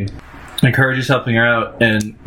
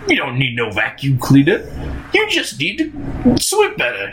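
a lightly voiced Labyrinth gremlin; a touch of a squeaky gremlin grump; half-hearted gremlin impression. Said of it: "he's the gremlin from Labyrinth".

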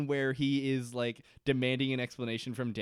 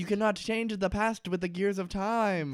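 mock screaming rant; 6 semitones higher than usual. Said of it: "Daniel is screaming at him".

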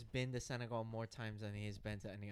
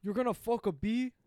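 Patrick Warburton voice; 8 semitones higher, 12 dB louder than usual. Retold or imitated. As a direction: do the Warburton deadpan. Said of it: "He's like".

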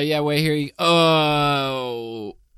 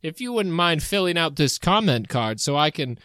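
Jesus voice. Acted. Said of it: "It's me, Jesus".

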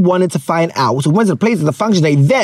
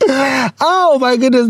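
mock dismay; 5 semitones higher, much slower than usual. Real, not acted. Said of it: "the age is showing".

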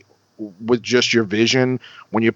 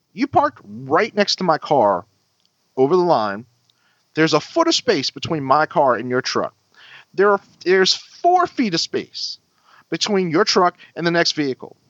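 higher-pitched retold telling-off; mild indignant scolding; 5 semitones higher than usual. Driver scolding a man about his parking, indignant. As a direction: spell it out, exasperated.

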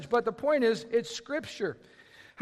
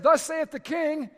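royal herald; 4 semitones higher, slower than usual. Retold or imitated. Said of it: "whenever somebody said".

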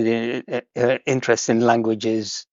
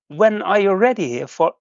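higher-pitched, lightly voiced kind lady; retelling the woman at the stop, lightly voicing her higher and kind; imitating a helpful woman; 5 semitones higher than usual. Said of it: "she said".

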